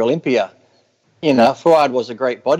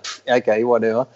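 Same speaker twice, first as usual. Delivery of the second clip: understated dry brush-off; puff, then dismiss it offhand; mildly sarcastic, straight-faced shrug-off; 2 semitones lower than usual. Retold or imitated. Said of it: "as to be sarcastic".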